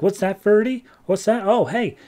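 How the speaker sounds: high, lilting fake curiosity; mock innocent questioning. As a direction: pretend the puppet just told you something. Ventriloquist feigns listening to her dummy.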